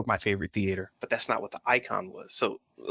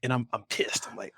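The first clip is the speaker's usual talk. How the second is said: whispered; 3 dB quieter than usual. Real, not acted. Angry moviegoer retelling being pissed.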